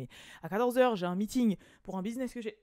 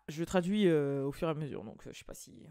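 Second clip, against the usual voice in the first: usual speaking voice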